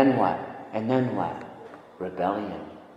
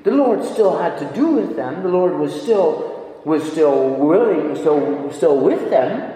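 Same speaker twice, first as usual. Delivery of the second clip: raised, insistent pulpit voice; emphatic preaching; 3 semitones higher, 6 dB louder than usual. Real, not acted. Preacher insisting the Lord was still with them, emphatic. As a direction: press each phrase home to the congregation.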